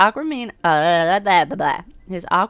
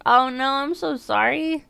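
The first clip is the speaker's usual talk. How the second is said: higher, slower oh no; dismayed; 8 semitones higher, 4 dB louder than usual. Real, not acted. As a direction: sound caught off guard. Stream crash apology.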